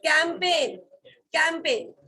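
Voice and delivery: "campaign" said clearly as KAM-pen, falling; model pronunciation. Shown as a demonstration. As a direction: model "campaign" slowly for the class to copy. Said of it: "C A M P A I". ("campaign" को साफ़ उच्चारण में, कैम-पेन)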